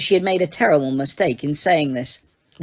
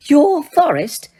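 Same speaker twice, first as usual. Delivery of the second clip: much higher, slow, outraged Umbridge; shaking indignant; 8 semitones higher, 5 dB louder, slower than usual. A narrator's reading. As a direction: sputter it in fright and outrage. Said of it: "shaking now, not only with fright, but also with indignation".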